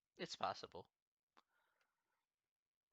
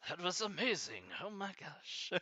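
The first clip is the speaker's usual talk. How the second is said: laughing; 6 semitones higher, 4 dB quieter than usual. Real, not acted. Laughing at own bad accent.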